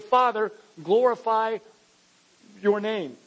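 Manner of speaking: slow, loud, lifted prayer; crying out to God. Shown as a demonstration. Preacher voicing Jesus calling out to the Father, loud and slow. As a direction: call it out to heaven, drawn out. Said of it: "A voice responded to the man who said".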